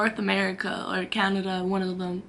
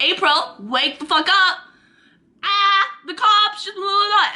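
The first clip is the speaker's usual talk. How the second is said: urgent wake-up; 8 semitones higher, 4 dB louder than usual. Retold or imitated. Urgently waking her friend.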